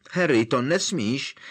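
high, loud alarmed shriek. Acted. Hermione shrieks at Harry to let go, shrill alarm. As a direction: cry out to stop him. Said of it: "zavřeštěla Hermiona".

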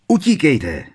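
loud urgent yell; bellowed. A narrator's reading. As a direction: yell at friends to run. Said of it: "zahulákal Harry". (Harry řve na přátele, ať utíkají)

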